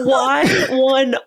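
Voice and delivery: laughing question. Real, not acted. Co-host asking the storyteller why she stripped, laughing. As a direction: ask while losing it to laughter.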